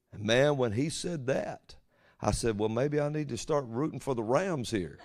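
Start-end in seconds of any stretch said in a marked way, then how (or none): 2.6-5.0 laughing. Retold or imitated. Retold own joking reply.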